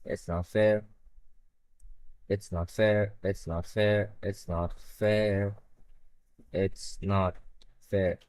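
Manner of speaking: whiny lament. Real, not acted. Streamer sulking over the flag, whiny repeated moan.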